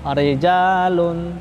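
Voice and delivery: slow "rijalun" with a thin single-tap r. Shown as a demonstration. Teacher modelling the thin r, slowly. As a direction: draw out "rijalun", keep the r light. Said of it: "dia tipis".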